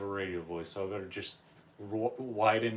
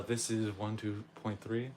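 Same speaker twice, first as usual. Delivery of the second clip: smooth late-night radio host. Acted. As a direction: announce it like a jazz station DJ. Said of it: "I'm doing the radio voice instead".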